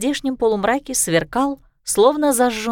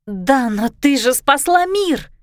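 exclaiming; 2 semitones higher, slower than usual. Acted. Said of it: "воскликнула Райя".

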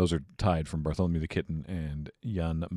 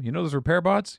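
higher excited Bob voice; calling out cheerfully as Bob; Bob sketch voice; 9 semitones higher, 3 dB louder than usual. Acted. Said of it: "small sketch about emergency weld".

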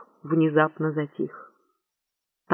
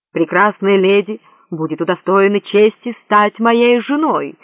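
pompous royal proclamation; grand announcement; 4 dB louder than usual. A narrator's reading. Prince announcing his wedding to court, pompous. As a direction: proclaim it to the whole hall. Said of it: "объявил Горбуль".

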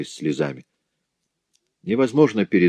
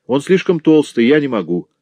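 put-on boy's protest; 8 semitones higher, 5 dB louder than usual. A narrator's reading. Boy complains to mother.

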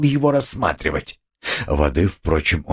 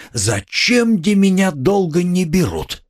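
higher mock plea of a suspect; mimicking the nervous suspect's question; mock whine; 8 semitones higher than usual. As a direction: play the guilty man begging to be taken.

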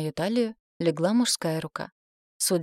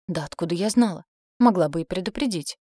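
offended; 4 dB louder than usual. Acted. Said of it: "обиженно засопела я".

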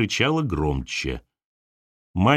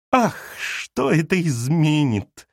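a slow, understated tearful moan; mild sob; 4 semitones higher, much slower than usual. Acted. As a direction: Galya wailing from the next room. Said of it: "прорыдала Галя". (Галя прорыдала, сдержанно)

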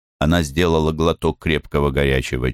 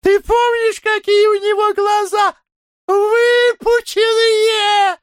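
shrieking gossip; 5 dB louder than usual. Acted. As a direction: shriek it at your friend in glee. Хохочущие девушки о старике. (визгливо и громко, со смехом)

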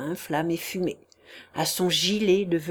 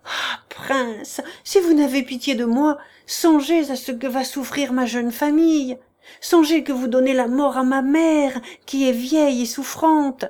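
pleading for pity; 4 semitones higher, 4 dB louder than usual. Acted. Chichikov begs for pity.

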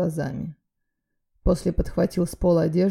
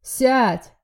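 loud, higher command; harsh bark; 6 semitones higher, 5 dB louder than usual. A narrator's reading. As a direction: bark her back into the chair. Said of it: "рявкнул парень из охраны". (резкий рявк)

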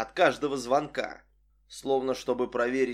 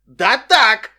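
loud, higher angry shout; 8 semitones higher, 15 dB louder than usual. A narrator's reading. Narrator yelling back at Vic, furious shout. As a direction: yell it back at her. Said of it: "закричал я".

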